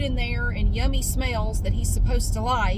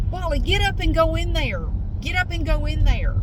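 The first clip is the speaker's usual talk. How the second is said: higher-pitched plea to a stubborn cat; exasperated urging; 5 semitones higher than usual. Retold or imitated. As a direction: coax the cat, drawing out each command. Urging the cat toward the trap.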